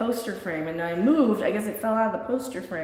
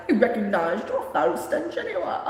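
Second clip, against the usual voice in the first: bad British accent. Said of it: "I can't do British".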